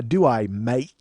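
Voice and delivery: lightly put-on Cockney "mate", said like "mite"; Cockney accent. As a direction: toss in a mock Cockney "mate". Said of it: "I don't have a Cockney ear".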